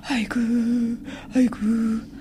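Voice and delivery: high mournful wail of aigu. Acted. Family wails as the dead father's soul arrives, wailing high. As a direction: cry out aigu like a keening mourner. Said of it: "We wailed".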